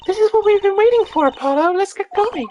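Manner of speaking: put-on rally him on in a bright girl's voice; high excited girl voice. Girl sidekick rallying Apollo to take the case, high and excited.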